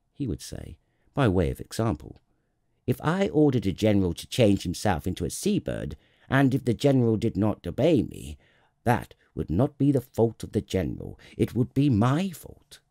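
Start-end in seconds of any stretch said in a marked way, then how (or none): 2.9-12.8 firm, emphatic royal explanation; reasoning king. Acted. King explains reasonable orders, firmly emphatic. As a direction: argue the case with mild pomp, louder.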